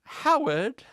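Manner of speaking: high, loud, rising mock American call; Perry, bad American accent. Host pretending to be a companion, bad American accent. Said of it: "pretending to be Perry doing a bad American accent".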